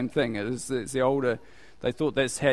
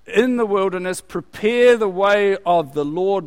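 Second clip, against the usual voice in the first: prophet's cry; 4 semitones higher, 5 dB louder than usual. Acted. Repeats John's cry.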